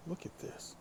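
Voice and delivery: breathy whisper, no voice. Real, not acted. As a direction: whisper it to the camera. Playful look at me remarks.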